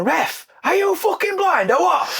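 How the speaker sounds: high, drawn-out shout at the ref; imitated manager's outraged call; mock touchline yell. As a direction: holler it slowly at an imagined referee. Imitating manager yelling at referee.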